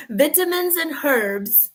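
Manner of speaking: slow, drawn out erbs; herbs with a silent h. Shown as a demonstration. Mocking American erbs.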